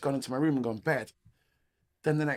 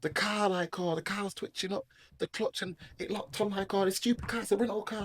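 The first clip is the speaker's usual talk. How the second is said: high-pitched flustered excuses; raised, mildly panicked retelling; retold freaking out; 6 semitones higher than usual. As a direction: act out panicky blaming of the car. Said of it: "I'm, like, freaking out".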